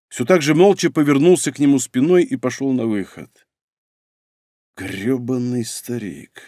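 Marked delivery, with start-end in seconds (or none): 4.8-6.4 slow, soft cursing to himself; bitter grumble. A narrator's reading. Son cursing his father after leaving, bitter grumble. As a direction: draw the insult out quietly.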